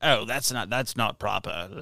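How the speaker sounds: lightly imitated prim old speech; a hint of vintage propriety, softly; old-time interviewee. Fifties interviewee on husbands at births, lightly imitated. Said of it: "they talk so strange".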